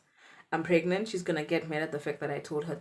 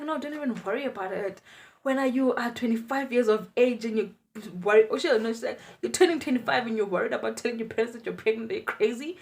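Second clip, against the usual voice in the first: playful scolding aunt; 5 semitones higher, 4 dB louder, faster than usual. Retold or imitated. Aunt dismisses worry.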